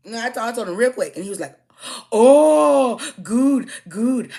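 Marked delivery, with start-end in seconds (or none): 2.1-4.3 imitating his put-on Hispanic accent, high and loud; squeaky mock Hispanic accent, much higher. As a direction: parody the caller going Hispanic. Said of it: "he wanted to get Hispanic".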